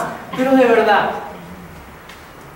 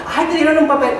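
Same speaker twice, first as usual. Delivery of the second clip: high teasing "ay" from a coworker; higher, playful coworker voice; teasing colleague; 9 semitones higher, 4 dB louder than usual. Retold or imitated. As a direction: tease him about getting a role, voice up high.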